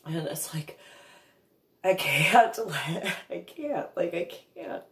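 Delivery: barely voiced, choking on tears; struggling to get words out through tears; choked up. Real, not acted. Breaking down while telling story.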